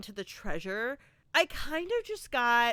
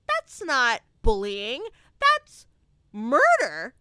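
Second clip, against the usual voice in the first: outraged shout; 8 dB louder, slower than usual. Retold or imitated. Reacting to Troy dropping Brad off a cliff, outraged yell. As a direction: build from disbelief to a shout. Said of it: "And I'm like".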